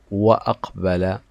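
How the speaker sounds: "وأقبل" with a clear glottal stop after wa; hamza pronounced. Shown as a demonstration. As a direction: sound the hamza in "وأقبل", wa-aqbala. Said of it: "هنا تظهر الهمزة في النطق". (نطق «وأقبل» بهمزة قطع ظاهرة)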